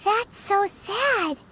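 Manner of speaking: slow, drawn-out sympathy on sad; mock pity. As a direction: stretch it out like exaggerated pity. Paimon pities the stranded astrologist.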